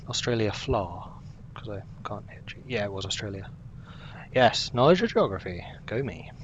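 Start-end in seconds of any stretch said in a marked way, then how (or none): 0.1-1.1 "fla" said without its final g; misspelling read aloud. Shown as a demonstration. Streamer mocking own typo, reading "fla" with no g. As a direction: say "fla" as typed, leaving off the g. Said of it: "Or as I spell it".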